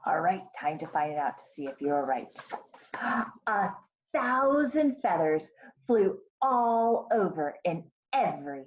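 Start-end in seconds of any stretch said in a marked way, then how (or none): 2.9-3.4 storyteller's gasp of surprise; dramatic gasp. A narrator's reading. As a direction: gasp before the big reveal. Story suspense before the feathers fly.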